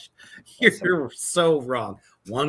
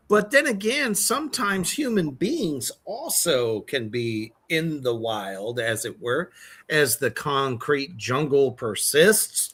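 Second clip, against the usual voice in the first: nature documentary intro. Pretend. Mock documentary lead-in.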